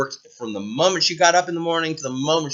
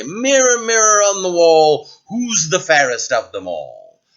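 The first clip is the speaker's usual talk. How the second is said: a hint of a grand queen, the opening words higher and louder; queen asking the mirror; 3 semitones higher, 4 dB louder than usual. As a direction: call grandly on the magic mirror. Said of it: "and say".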